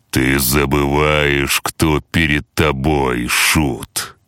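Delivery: slow cold warning; menacing boss voice. Acted. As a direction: look down on the jester, slowly. Boss threatens hero.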